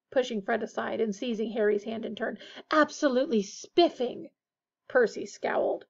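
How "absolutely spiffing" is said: higher, hammed-up posh enthusiasm; mock-posh delight. A narrator's reading. George greets Harry after Fred, mock-posh. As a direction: send up pompous manners with relish. George mocks Percy's pomposity.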